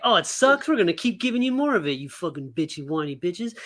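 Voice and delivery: 嘲るような重役の声; mock studio exec. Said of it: "they're like".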